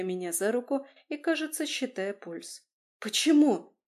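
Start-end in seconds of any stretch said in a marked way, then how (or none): 3.0-3.8 a horrified breathless why, pitched up and loud; horrified gasp. A narrator's reading. Woman in labour gasps in horror at the doctor's news. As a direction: blurt it out in alarm. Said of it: "выдохнула я в ужасе".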